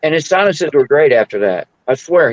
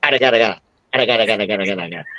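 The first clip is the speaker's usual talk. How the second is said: low, soft mock foreign-language gibberish chant; mock Asian gibberish; 5 semitones lower, 4 dB quieter, much faster than usual. Asked by his friend to repeat the noise, low soft mock gibberish. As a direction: rattle off the nonsense syllables softly as a joke. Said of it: "That's my best Asian I can do".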